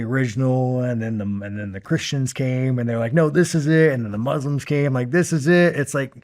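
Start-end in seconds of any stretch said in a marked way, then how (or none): 3.1-3.9 high, loud mock proclamation; mock certainty. Mocking the Christians' claim, in a loud, higher-pitched mock-certain voice. 5.1-5.8 high, loud mock proclamation; mock certainty. Mocking the Christians' claim, in a loud, higher-pitched mock-certain voice.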